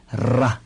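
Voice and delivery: ra with a trilled tongue-tip r; rolled r. Shown as a demonstration. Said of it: "一块念".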